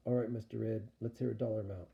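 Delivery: mildly whiny, grumbling; a touch of complaint in "All right, Mister Ed"; half complaining. Acted. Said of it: "half complaining".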